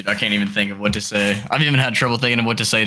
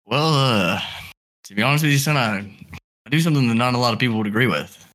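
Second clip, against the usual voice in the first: put-on girlfriend's dad voice. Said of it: "let's run more of a real scenario".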